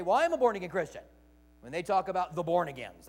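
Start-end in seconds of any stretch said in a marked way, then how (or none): 0.0-1.0 proud believer. Retold or imitated. Preacher voices Christians naming themselves proudly. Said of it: "which we would say".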